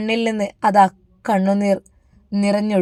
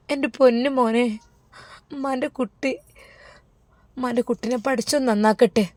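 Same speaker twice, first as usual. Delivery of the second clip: tender mother; 4 semitones higher, 4 dB quieter than usual. Acted. Mother blessing son at leaving.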